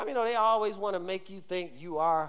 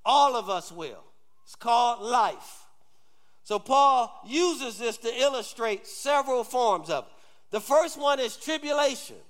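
preaching; 8 semitones higher, 6 dB louder than usual. Real, not acted. Preaches at full force.

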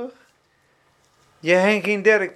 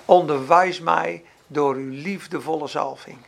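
slow, lower humble prayer; prayerful; 5 semitones lower, slower than usual. Retold or imitated. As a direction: pray it slowly and tenderly. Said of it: "dan zeg je".

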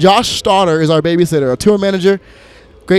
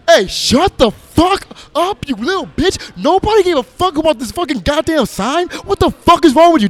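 much higher, louder furious tirade; angry yelling; 10 semitones higher, 3 dB louder than usual. Retold or imitated. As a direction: tear into the driver at full volume. Prof yells at the driver.

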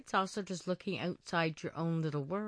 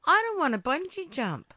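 higher, louder, appalled exclamation; mock alarm; 5 semitones higher, 5 dB louder than usual. Guest voicing her reaction to people doing extreme sports, mock alarm. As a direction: exclaim it in emphatic disbelief.

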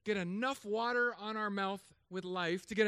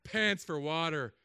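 deadpan punchline; 2 semitones lower, slower than usual. Shown as a demonstration. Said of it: "I'm gonna say".

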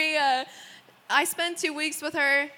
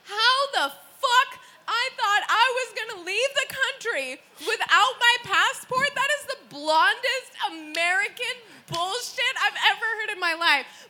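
higher, exasperated rant; incredulous outrage; 5 semitones higher than usual. Retold or imitated. Husband or self berating the blunder.

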